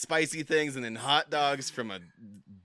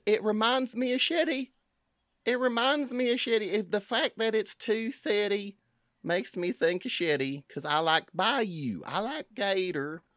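put-on a loose, wavering Cajun bayou accent; 4 semitones higher than usual. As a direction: judge tasting in a shaky Cajun accent. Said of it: "I think I fucked up the accent".

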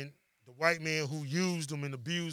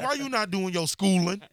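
put-on old folks voice; 4 semitones higher, 5 dB louder than usual. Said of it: "That's what old folks say".

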